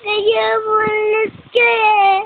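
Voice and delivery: loud, tearful complaint. Real, not acted. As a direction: complain to a parent through tears. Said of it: "Stop crying na". (naiiyak na nagrereklamo)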